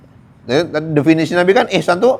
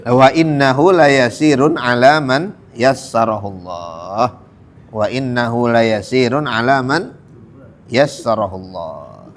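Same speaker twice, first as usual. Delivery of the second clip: slow, drawn-out chanted Arabic; Quranic recitation; slower than usual. Acted. Preacher reciting the verse to his listeners, slow chant. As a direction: intone the verse slowly and devoutly.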